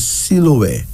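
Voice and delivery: Siloué as see-loo-weh, falling at the end; careful pronunciation. Shown as a demonstration. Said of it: "pronounced as".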